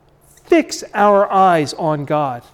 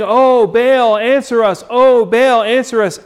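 mock-begging cry to Baal, a bit louder; pleading pagan prayer; 4 semitones higher, 4 dB louder than usual. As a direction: call out to Baal like a desperate worshipper. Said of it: "they were praying".

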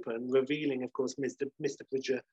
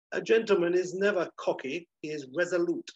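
higher-pitched, lightly acted superiority; haughty correction; 5 semitones higher than usual. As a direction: correct him like a regal gentleman. Regal Bridger corrects Delon.

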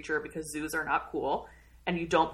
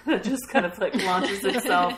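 laughing; 6 dB louder than usual. Real, not acted. Laughing while describing scene.

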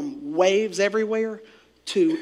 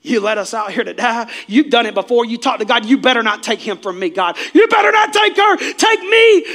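angry pleading shout, climbing higher and louder; angry outburst; 3 semitones higher, 8 dB louder than usual. Acted. Disciples and mourners railing at God, angry shouting. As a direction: shout it up at God in rising anger. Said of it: "The disciples are angry".

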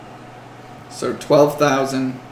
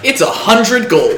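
slow, higher, louder plant voice; slow hissing strangling vine; 7 semitones higher, 6 dB louder than usual. Acted. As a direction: hiss it out like a creeping vine. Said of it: "you gonna make me make a plant voice?".

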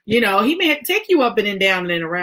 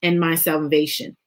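scripture reading; slower than usual. Acted.

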